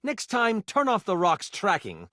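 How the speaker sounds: lightly voiced enchanter, gently scolding; knowing mentor. Mentor catches apprentice lying, knowing and lightly scolding. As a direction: chide as one never fooled.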